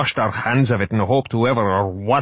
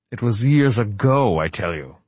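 snapped; 3 semitones higher than usual. Acted. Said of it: "Wright snapped".

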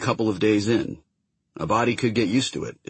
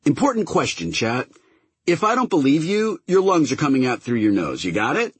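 threatening captain; 7 semitones higher than usual. Acted. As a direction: threaten him, pitched up and hard. Kiva threatening prisoner.

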